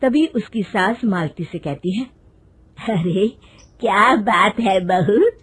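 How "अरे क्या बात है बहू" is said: slow, drawn-out mother-in-law questioning; inquisitive mother-in-law. Acted. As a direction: lightly nag the daughter-in-law, stretching the words. Voices mother-in-law questioning daughter-in-law. (टोकती सास की आवाज़)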